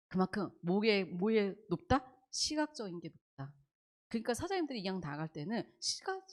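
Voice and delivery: normal talking voice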